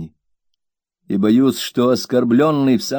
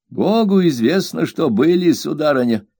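raised, firm housemaid voice; higher-pitched stubborn servant; stubborn servant Peggotty; 7 semitones higher than usual. A narrator's reading. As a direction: dig in your heels as the blunt maid.

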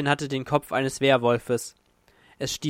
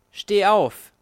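a loud, much higher order; sharp command; 7 semitones higher, 7 dB louder than usual. Acted. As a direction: bark it out as a command. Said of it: "erklang der Befehl". (scharfer, lauter Befehl)

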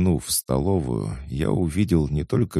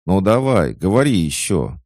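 loud, high, eager prompting; urging on; 6 semitones higher, 7 dB louder than usual. A narrator's reading. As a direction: hurry a pupil to speak. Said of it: "поторопила куклу первая горничная". (нетерпеливо поторапливая)

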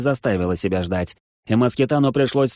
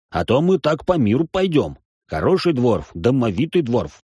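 put-on excited old dwarf; 4 semitones higher than usual. Excited dwarf Bartulun rambling.

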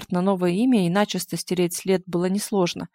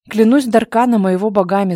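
a louder, angry vow; angry oath; 2 semitones higher, 7 dB louder than usual. A narrator's reading. Alex forced to swear an oath to Eva, angry loud vow. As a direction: swear it through your anger. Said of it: "зло сказал Алекс".

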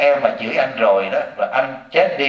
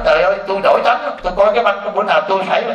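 fast, high excited exclaiming; excited viewer; 6 semitones higher, faster than usual. Retold or imitated. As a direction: rush it out, amazed and higher. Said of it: "họ nói". (giọng khán giả phấn khích, nói nhanh)

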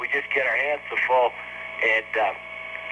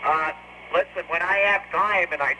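crackly radio acknowledgment; astronaut radio; 4 semitones higher than usual. Real, not acted. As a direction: answer over a space radio link. Astronaut replying over radio.

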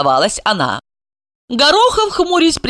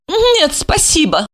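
smirking refusal; 10 semitones higher than usual. Acted. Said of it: "усмехнулась она".

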